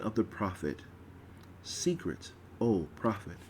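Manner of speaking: solemn, ringing liturgical reading; ritual proclamation. Acted. Goddess proclaiming the feasts to her people, solemn.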